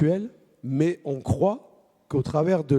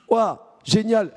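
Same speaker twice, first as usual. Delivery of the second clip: high, slow, drawn-out delight; 8 semitones higher, 4 dB louder, much slower than usual. Pretend. Telling the children the friend is coming, overjoyed. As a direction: stretch out the joy. Pretend joy on phone.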